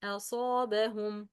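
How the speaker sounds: أصابهم opened with a light, thin "a"; light hamza. Shown as a demonstration. Teacher giving an example of hamza, light first vowel in أصابهم. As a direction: keep the first vowel of أصابهم light, long "saa" after.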